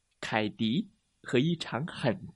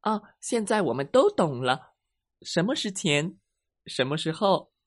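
happy students; 4 semitones higher than usual. Acted. Students chorus their understanding.

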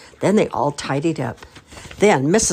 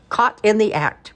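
gleeful; 7 semitones higher, 4 dB louder than usual. A narrator's reading. Father catches mother sneaking cake.

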